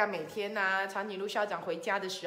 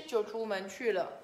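plain reading voice

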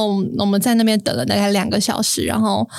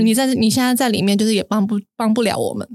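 impatient. Retold or imitated. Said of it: "我就有点不耐烦".

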